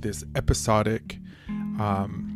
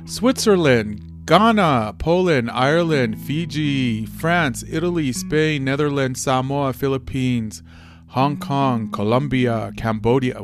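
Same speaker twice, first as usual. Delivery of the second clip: excited; 2 semitones higher, 4 dB louder than usual. Real, not acted. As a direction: reel off each name with delight. Reading surprising country list.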